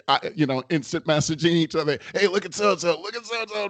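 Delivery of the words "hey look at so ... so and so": high, softening mock gossip; retold stifled amusement. Coworkers messaging each other during a camera meeting, trying not to laugh. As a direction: imitate coworkers sneakily pointing someone out, pitch raised. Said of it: "We're trying not to laugh".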